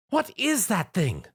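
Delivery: high, slow alarmed shout. A narrator's reading. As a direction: shout at the monster. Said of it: "Rarity shouted".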